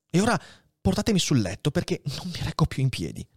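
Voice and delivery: lightly voiced dying old priest, weary; a hint of an old man shivering with fever; dying old abbé. Dying Faria tells Edmond his attack is coming, weary.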